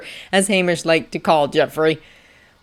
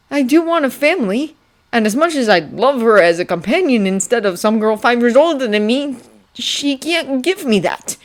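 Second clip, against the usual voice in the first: higher-pitched, lightly voiced boy; earnest young prince; 5 semitones higher than usual. Young prince tells the librarian he wants family, higher earnest voice. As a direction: explain the dilemma, slowing at the end.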